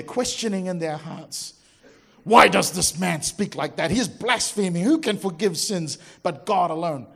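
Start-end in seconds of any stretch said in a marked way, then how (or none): 2.2-7.1 indignant. Retold or imitated. Scribes object indignantly.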